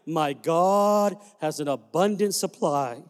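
lightly voiced old man, slow and deliberate; slow old man's saying. Old man telling the boy from behind the pew, lightly voiced and slow. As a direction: drawl it out like the old church elder. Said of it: "he said the same thing every time".

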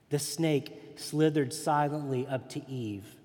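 put-on reading a bedtime Bible story to a child; gentle children's story reading; storybook reading. Reads children's Bible story aloud.

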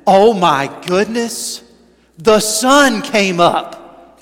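slow, drawn-out fake amazement; mock surprise. Hunter in the deer woods, hammed-up surprise. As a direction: act amazed that the sun rose.

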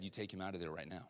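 soft, calm and firm command; hushed, steady, certain instruction; quiet voice of God. Retold or imitated. God repeating his answer to the father, softly firm.

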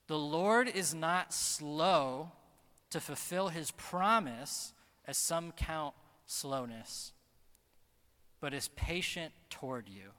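slow, measured Bible reading; scripture reading. Acted. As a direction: read the verse slowly, letting it land. Reads scripture verse aloud.

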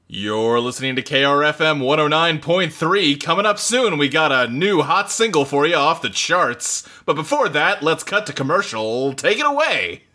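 upbeat radio host patter. Shown as a demonstration. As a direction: announce it like a morning DJ. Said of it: "let's hear yours".

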